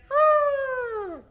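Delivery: very high, long hooted trumpet call; elephant trumpet. Shown as a demonstration. Teacher showing elephants trumpeting, high hooting call. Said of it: "hear the elephants trumping".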